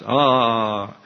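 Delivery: "Ah" as a drawn-out open vowel; short O sound. Shown as a demonstration. Teacher demonstrates Greek short O, open "Ah". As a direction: hold "Ah" open, as in father. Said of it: "for a short O is ah".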